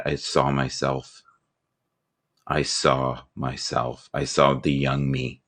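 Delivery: slow, low and soft; hushed realisation. Real, not acted. Seeing himself in grandfather's war picture, hushed realisation. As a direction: let the realisation sink in slowly. Solemn climax of grandfather story.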